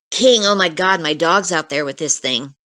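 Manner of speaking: mildly hysterical cry for the dog; retold panic. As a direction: relive his rising panic, lightly acted. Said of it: "he's starting to get hysterical".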